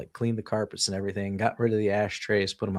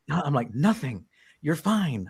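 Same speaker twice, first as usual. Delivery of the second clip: retold reassurance; 5 semitones higher, slower than usual. Husband reassures frightened wife, retold.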